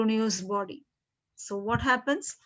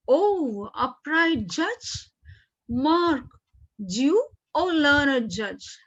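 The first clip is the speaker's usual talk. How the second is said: lightly acted cry of praise, pitched up; rejoicing Gratiano; 3 semitones higher, slower than usual. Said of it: "he is rejoicing now".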